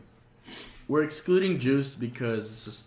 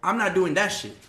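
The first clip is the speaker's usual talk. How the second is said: imitating a cautious guy; 5 semitones higher, 5 dB louder than usual. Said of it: "They're like".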